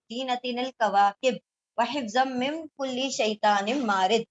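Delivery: slow, measured Arabic recitation with drawn-out vowels; Quran recitation. Acted. Teacher recites the verses before translating, in slow Quranic recitation. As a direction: recite the verses slowly, stretching the long syllables.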